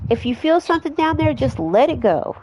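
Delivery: high mom voice. Acted. Mom voiced coaching potty.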